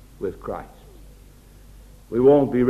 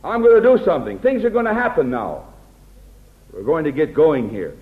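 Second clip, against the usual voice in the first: boastful take-charge. Pretend. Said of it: "a man of God doesn't talk like that".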